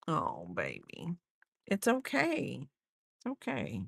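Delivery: calm the dog down gently; soothing pet talk. Real, not acted.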